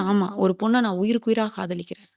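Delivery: usual speaking voice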